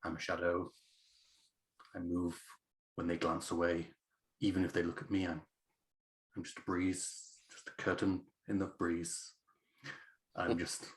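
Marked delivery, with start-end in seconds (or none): 0.0-9.3 quiet, halting self-talk under the breath; muttering to self. Acted. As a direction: mutter it to yourself while sneaking. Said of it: "I'm muttering".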